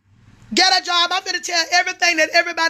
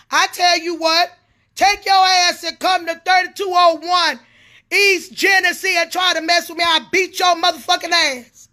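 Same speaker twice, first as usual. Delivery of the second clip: real angry challenge, raised voice; angry threat; 2 semitones higher than usual. Real, not acted. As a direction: dare them to come and fight. Threatens her critics in angry tirade.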